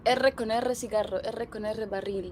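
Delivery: R in "R con R cigarro" trilled hard; rolled R tongue twister. Shown as a demonstration. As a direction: roll every R in "R con R barril". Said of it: "You gotta say".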